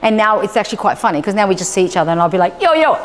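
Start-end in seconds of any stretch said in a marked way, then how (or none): 2.6-2.9 high, lively mock greeting; playful call. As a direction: call out playfully in a raised pitch. Playful greeting in face game.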